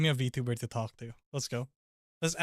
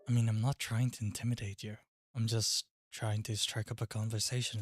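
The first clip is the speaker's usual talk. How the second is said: composed British voice, slightly lowered; understated British character voice; British accent. Acted. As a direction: put on a polite British accent. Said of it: "we're putting on the British voice".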